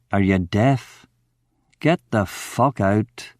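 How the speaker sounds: too tired to shout anymore; weary. Acted. Drunk man wearily sends Ramon away. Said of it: "I said wearily".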